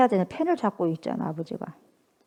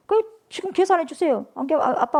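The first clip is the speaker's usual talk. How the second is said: insistent son; 7 semitones higher than usual. Retold or imitated. Son demands inheritance.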